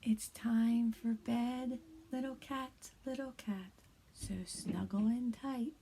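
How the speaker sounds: soft, hushed read-aloud; quiet bedtime reading. Shown as a demonstration. Teacher reads a bedtime story to kindergarteners, hushed. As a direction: lull little ones toward sleep. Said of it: "I'm gonna read this book a little quieter".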